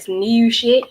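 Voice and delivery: "new shit" in a thicker Baltimore accent; playfully heightened Baltimore accent; stronger Baltimore accent. Shown as a demonstration. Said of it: "put more Baltimore accent and art accent on that".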